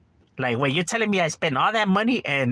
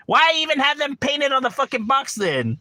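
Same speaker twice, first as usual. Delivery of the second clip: outraged question; 10 semitones higher than usual. Real, not acted. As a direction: drag out the complaint in disbelief.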